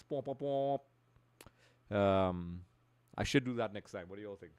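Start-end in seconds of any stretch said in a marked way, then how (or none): 0.0-0.8 three voiced pom sounds; spoken sound effect. Shown as a demonstration. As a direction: imitate a horn-like sound effect. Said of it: "sound effects".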